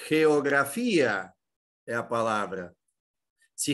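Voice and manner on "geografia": "Geografia" very slow, ge-o-gra-fi-a, landing on the i; slow syllable split. Shown as a demonstration. Teacher pointing out the hiatus in "Geografia" to students, slow and clear. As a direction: draw out "Geografia" for the class. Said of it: "Olha aqui, ó".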